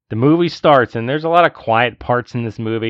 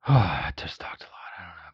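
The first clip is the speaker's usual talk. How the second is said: whisper; 4 semitones lower, 9 dB quieter than usual. Real, not acted. Tired wrap-up.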